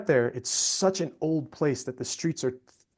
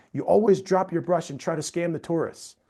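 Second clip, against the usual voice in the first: retold yell; 5 semitones higher, 4 dB louder than usual. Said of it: "starts yelling at the guy".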